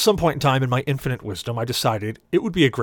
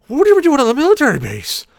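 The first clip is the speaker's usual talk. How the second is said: much higher, louder disbelieving yell; alarmed shout; 10 dB louder than usual. Retold or imitated. Passenger shouts at cabbie on army base, disbelieving.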